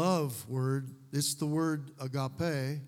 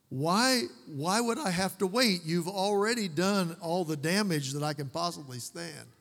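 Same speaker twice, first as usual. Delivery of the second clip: mock protest; 2 semitones higher than usual. Son silently objecting to waiting for dad, mock-indignant. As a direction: protest the coming punishment with hammed-up indignation. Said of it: "I'm thinking".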